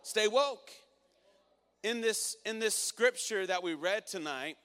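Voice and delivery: loud, high preaching voice; fired-up preacher rallying the congregation; preaching at full force. Acted. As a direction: drive the point home to the crowd. Preaching continues.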